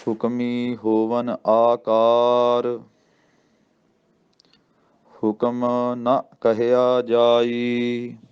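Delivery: very slow chanted Gurbani line, pause after ਆਕਾਰ; ਆਕਾਰ ਤੇ ਵਿਸਰਾਮ ਨਾਲ ਹੌਲੀ ਪਾਠ; slow recitation with pause. Shown as a demonstration. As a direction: recite it slowly, resting on ਆਕਾਰ. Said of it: "ਆਕਾਰ ਤੇ ਵਿਸਰਾਮ ਲੱਗਦਾ ਜੀ".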